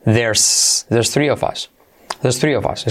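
"There's" in place of "there are", ending on a clear S; casual "There's" as one syllable; native-style contraction. Shown as a demonstration. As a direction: link "There's" straight into "three". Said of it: "lo dicen así".

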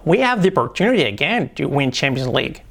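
flowing tune on "We have the opportunity again"; with intonation. Shown as a demonstration. Teacher models the corrected sentence. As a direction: say it with natural English melody. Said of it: "Entonación, importante".

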